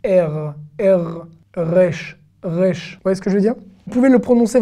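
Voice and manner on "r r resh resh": R and resh with the R slightly back in the throat; R en arrière. Shown as a demonstration. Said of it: "un peu plus derrière". (resh, R légèrement dans la gorge)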